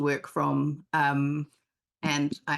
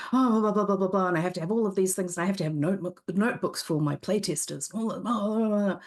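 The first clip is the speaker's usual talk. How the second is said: mock fretting; 4 semitones higher than usual. Mocking her own fretting.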